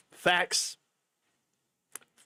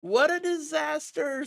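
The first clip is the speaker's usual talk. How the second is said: hiccuping; 14 semitones higher than usual. Real, not acted. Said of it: "these freaking hiccups".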